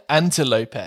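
"antelope" as "an-TEL-o-pee"; antelope like Penelope. Shown as a demonstration. Host demoing the swap, antelope like Penelope. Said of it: "pronounced the way Penelope is".

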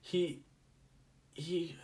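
halting, choked-up act with long pauses; mock-emotional storyteller struggling to continue; getting emotional. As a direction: play too moved to go on, pitched high, trailing to a sigh. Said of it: "I'm sorry, I'm getting emotional".

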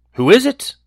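put-on high, frail old woman voice; a feeble granny calling from bed; grandmother voice. A narrator's reading. Grandmother answers the door.

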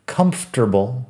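"Comfortable" as KUMF-ter-bul; "Comfortable" reduced to three syllables; no fort in comfortable. Shown as a demonstration. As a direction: say "Comfortable" with neither fort nor table. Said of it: "tampoco tiene fort".

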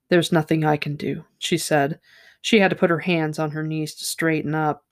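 steady audiobook-style reading of a novel; story reading. Acted. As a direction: read the passage aloud like a storyteller. Reads a novel passage aloud.

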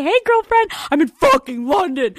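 high-pitched, hammed-up girlfriend greeting; mock excited greeting. Client calling her therapist from London, mock excited. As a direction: start way up high, playing gleeful. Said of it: "And I'm gonna say".

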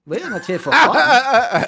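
slow, loud, high mock German; stern German killjoy accent. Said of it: "I should start doing that German accent more".

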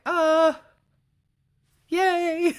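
high, drawn-out little yay; mock cheer. Book fan voices everybody's reaction, high mock cheer. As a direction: squeal a hammed-up celebration.

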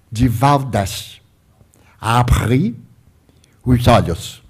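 lightly voiced spirit, slow and low. Spirit woman bids Divaldo open his eyes, lightly voiced spirit. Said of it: "eu escutei uma voz física que disse".

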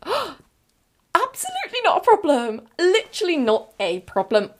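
very high, gushing reassurance; overjoyed relief. Retold or imitated. Customer told it costs seventy pounds, overjoyed relief. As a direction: squeal it out, hammed-up relief.

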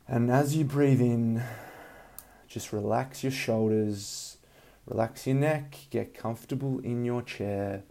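calm breathing guidance, unhurried; soothing massage murmur. Acted. Leads a guided meditation.

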